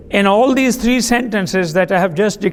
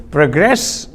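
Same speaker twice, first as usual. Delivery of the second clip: Progress said pro-GRESS, second syllable stressed, as a verb; 5 semitones lower than usual. Shown as a demonstration. Teacher shows the stress mark to students, pro-GRESS. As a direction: push the weight onto GRESS in Progress. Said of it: "emphasizing the second syllable".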